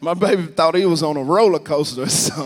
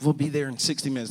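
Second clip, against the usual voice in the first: softer, even customer-service reply; calm the caller in a quieter voice; placating supervisor; 6 dB quieter than usual. Retold or imitated. Supervisor to angry caller about tow truck, placating.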